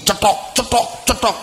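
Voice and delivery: high, sharp spoken knocks; imitated hitting sound. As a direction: mimic repeated knocks. Imitating knocks on child's head. (tiruan bunyi jitakan)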